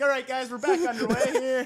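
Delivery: play-by-play announcer. Retold or imitated. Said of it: "and you're like".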